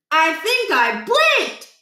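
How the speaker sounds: put-on a worried kid admitting he blinked; kid's voice. A narrator's reading. Stuart voiced, higher, slow.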